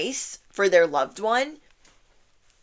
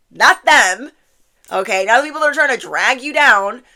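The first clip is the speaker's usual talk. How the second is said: emphatic exclusion; 4 semitones higher, 8 dB louder than usual. Real, not acted. Firmly excludes greedy people.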